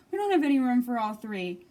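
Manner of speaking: loud, desperate plea; pleading. Acted. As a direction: beg them to stop. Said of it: "pleaded Bob".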